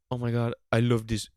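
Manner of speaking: attempted Russian accent, breaking into the quote with some force; Vladimir Putin's Russian accent. Comedian voicing a young leader's bright idea, rough Russian accent. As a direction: have a shaky go at a Russian accent. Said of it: "I can't do a Russian accent".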